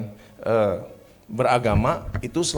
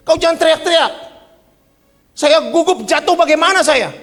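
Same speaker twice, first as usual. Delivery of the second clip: high, loud indignant scolding; angry thief; 10 dB louder than usual. Retold or imitated. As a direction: tell him off for yelling. (pencuri memarahi pemilik rumah dengan suara keras)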